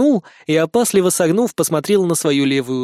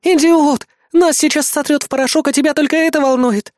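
high, loud furious shout; furious outrage; 10 semitones higher, 4 dB louder than usual. Acted. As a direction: yell at him in wild rage. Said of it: "дикая ярость и возмущение". (высокий громкий яростный крик)

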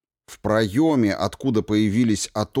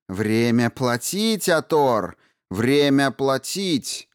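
slow menacing threat; 3 semitones higher, slower than usual. Acted. Princess threatens Ator.

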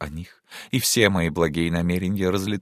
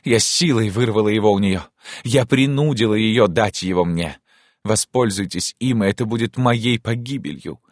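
higher, agitated confession; dramatic cry; 4 semitones higher than usual. Acted. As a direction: declare it with theatrical agitation. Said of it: "крикнула она". (взволнованно, театрально)

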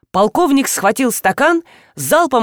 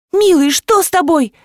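higher, fretful wail over the groom; wailing lament; 6 semitones higher than usual. A narrator's reading. Bride frets over her collapsing fiancé: higher wailing. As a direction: lament as if he's dying. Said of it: "запричитала невеста".

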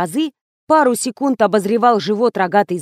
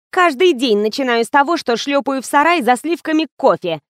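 ordinary delivery

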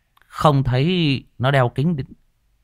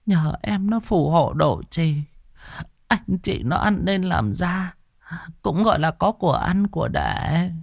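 put-on old grandmother; 9 semitones higher than usual. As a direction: speak as a frail old grandma. Grandmother voice continues.

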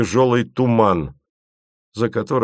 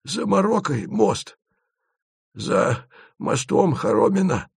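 the speaker's storyteller voice; 9 semitones higher than usual. A narrator's reading.

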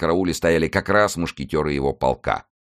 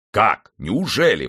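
startled, higher-pitched questions; stunned exclamation; 5 semitones higher, 4 dB louder, slower than usual. A narrator's reading. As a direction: exclaim as if taken aback. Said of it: "воскликнул ошеломлённый Портос". (ошеломлённое восклицание)

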